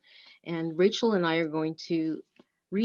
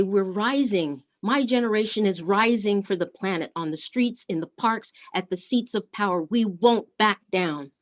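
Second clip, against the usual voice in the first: put-on young protester; 2 semitones higher, 4 dB louder than usual. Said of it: "They say".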